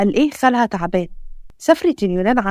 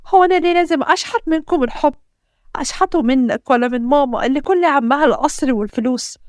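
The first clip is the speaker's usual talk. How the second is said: tearful outburst; 4 semitones higher than usual. Acted. Wife's tearful outburst at husband.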